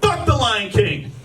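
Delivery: drawn out mock jeer; imitating a street heckler, slowed; slow taunting insult. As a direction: hurl it slowly at his back. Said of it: "she said".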